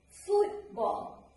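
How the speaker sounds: "football" with FOOT pitched high, BALL falling away; stress on first noun. Shown as a demonstration. Teacher giving an example of compound noun stress, stress on FOOT in "football". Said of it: "put the stress on the first noun".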